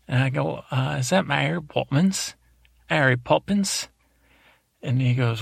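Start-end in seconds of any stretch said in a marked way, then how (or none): 0.7-3.9 "Mary" said as "Airy", higher questioning call; "Mary" missing its M, pitched up like a question; dropped first letter. Retold or imitated. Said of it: "films with one letter missing".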